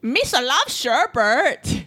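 hammed-up Jar Jar Binks voice; bad Jar Jar voice. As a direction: play a goofy alien giving boring fun facts. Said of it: "Jar Jar and Yoda arguing".

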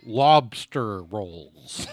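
put-on slow, drawn-out Boston accent. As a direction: stretch lobster rolls out Boston style. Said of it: "British actor doing an American accent".

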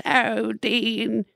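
put-on high, frail British old lady; imitating a ninety-year-old British woman; British grandmother. Grandmother greets her grandson Dean, elderly British voice. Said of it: "like, my grandmother, she goes".

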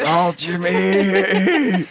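very slow high ghostly whisper; soft echoing dream voice. Pretend. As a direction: stretch it out like a last breath. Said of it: "can you do it as you die for me".

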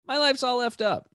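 high, tearful imitated wail; retold friend in tears; mock crying. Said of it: "she starts crying".

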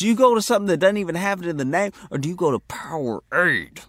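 high, loud, hyped-up pitch; emphatic hype. Acted. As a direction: sell it like a hype man. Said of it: "Why are you saying it like that?".

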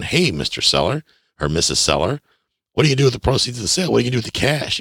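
rushed, high-pitched prying questions; abrupt nosy questioning. Acted. Buyer asking the seller far too early, abrupt and nosy. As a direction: fire the question at them too soon.

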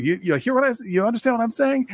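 Brad Pitt. Retold or imitated. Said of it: "Brad Pitt's like".

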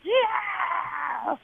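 long, high mock cheer in a small voice; soft, high-pitched imitation of a roaring crowd; imitating cheering crowd. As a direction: cheer like a distant arena crowd. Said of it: "And the crowd's like".

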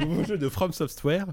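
slow, laughing through it; laughing retake. Real, not acted. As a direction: give it a second go, laughing. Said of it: "C'est pas mieux la deuxième fois".

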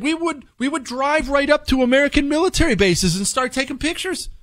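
high-pitched retold taunt; mocking. Former spy taunting Americans about their open bases, mocking. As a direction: imitate someone mocking the other side, voice lifted high. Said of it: "He was mocking them".

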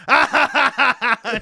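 high, loud mock guffaw; imitated big laugh. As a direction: belt out the father-in-law's roaring laugh. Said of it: "He's laughing so hard".

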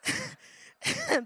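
high, loud and playful, nudging a neighbour; playful shout. Shown as a demonstration. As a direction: shout it at the person beside you. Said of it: "give the person beside you a little shove and say".

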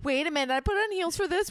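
high, indignant question; mock outrage. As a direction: act scandalized. Acted outrage about restaurant.

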